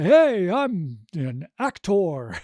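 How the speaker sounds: mock pompous performer; mock hammy actor. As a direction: ham it up like a show-off actor. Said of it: "trying to be all radio D J person".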